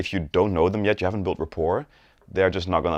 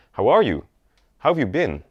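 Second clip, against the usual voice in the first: higher, friendly "How are you? How have you been?"; friendly rising tone; 5 semitones higher, 3 dB louder than usual. Shown as a demonstration. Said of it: "it's very friendly".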